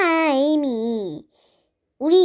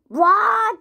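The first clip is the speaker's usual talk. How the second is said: outraged wail; slower than usual. Acted. Reacting to a hater comment.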